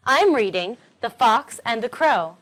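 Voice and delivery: fox and crow stressed most. Shown as a demonstration. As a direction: punch fox and crow in I'm reading The Fox and the Crow. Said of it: "fox and crow are the most important words".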